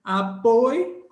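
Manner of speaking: loud teacher demo of Apoio; diphthong demo. Shown as a demonstration. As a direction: model Apoio in one movement. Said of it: "o ditongo é isso".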